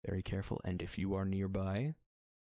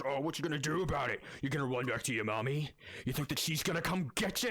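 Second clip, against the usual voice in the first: mocking, a little higher taunt; taunting demon; 5 semitones higher than usual. Demon mocking the lizard folk, lightly higher and taunting. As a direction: sneer at the lizard. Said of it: "he goes".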